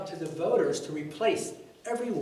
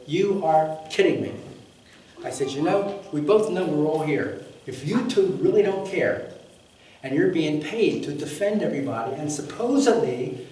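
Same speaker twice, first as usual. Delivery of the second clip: retold anger; 7 dB louder than usual. Retelling clash with policemen.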